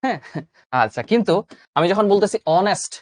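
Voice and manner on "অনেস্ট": অনেস্ট said "onest", h dropped; silent h. Shown as a demonstration. Teacher shows students that honest has a silent h. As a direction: open অনেস্ট on the vowel. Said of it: "হনেস্ট বলতেছি না".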